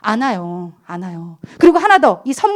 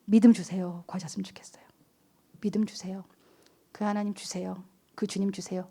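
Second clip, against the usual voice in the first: soft, low prayerful murmur; hushed plea; 6 semitones lower, 12 dB quieter than usual. Shown as a demonstration. Pastor modelling a prayer for faith, hushed plea. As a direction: plead quietly, dropping toward a whisper.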